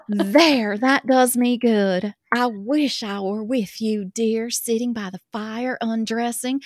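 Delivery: put-on reading a love letter in a light Southern accent. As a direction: read it as a swooning Southern girl. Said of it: "that accent".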